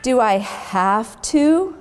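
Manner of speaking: slow, mild whiny moan; a reluctant little moan.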